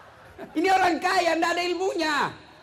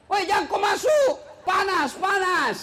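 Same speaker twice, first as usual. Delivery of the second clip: warning shout; 5 semitones higher than usual. Retold or imitated. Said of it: "warns man at lift".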